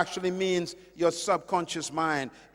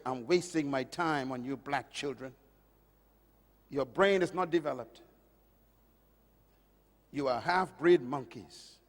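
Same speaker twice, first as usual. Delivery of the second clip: cold teacher's contempt; 6 semitones lower, 6 dB quieter than usual. Retold or imitated. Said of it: "he said these words".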